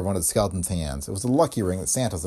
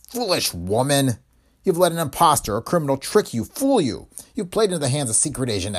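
higher, rising scorn; scornful scolding; 5 semitones higher than usual. Acted. Unseen boss berating the dame for being fooled. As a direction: scold her like a fool.

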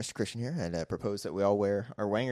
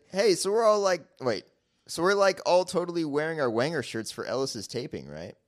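higher-pitched imitation of a friend, drawn-out emphasis; Christian impression; 5 semitones higher, slower than usual. Co-host reads Christian's text aloud on request, in a high impression voice. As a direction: read it high, stretching the words out. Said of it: "read this in Christian's voice".

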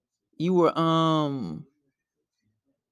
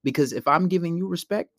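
calm boundary-setting. Shown as a demonstration. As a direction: state it evenly, without getting excited. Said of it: "you wanna keep a calm tone".

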